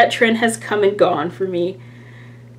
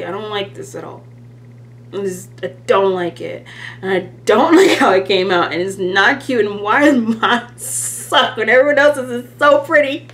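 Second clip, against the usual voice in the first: pouty whine; 4 semitones higher than usual. Retold or imitated. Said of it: "I was such a pouty toddler".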